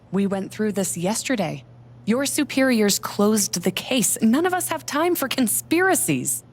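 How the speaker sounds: loud, sharp and impatient; angry. Acted. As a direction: shut him down loudly. Heated council quarrel.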